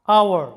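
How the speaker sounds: আওয়ার said "our", with no h sound; আওয়ার spoken as the English "hour" with a silent h. Shown as a demonstration. Teacher shows students আওয়ার with a silent h. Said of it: "এখানে এইচ এর কোনো উচ্চারণ নাই".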